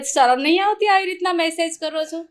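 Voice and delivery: replaying an indignant reply to a cheeky text; retold scolding. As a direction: scold him like a stern girl shutting him down. Scolding a forward message, retold.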